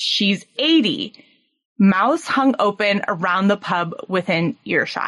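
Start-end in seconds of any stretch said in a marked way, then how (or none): 0.0-1.1 mock-disgusted, scornful tone. Retelling a girl in a pub group reacting to a crude remark, retelling a disgusted remark. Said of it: "in disgust".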